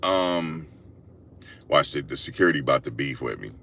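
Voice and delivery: low, soft and fast; quiet hurried aside. Retold or imitated. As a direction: mutter it under your breath. Girl whispering about security guard.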